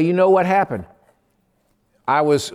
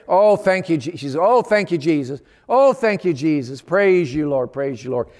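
joyful praise. Retold or imitated.

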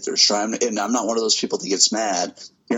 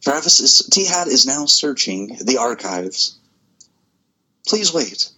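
phone menu voice; 4 semitones higher, 3 dB louder than usual. Pretend. Mock automated system announcement.

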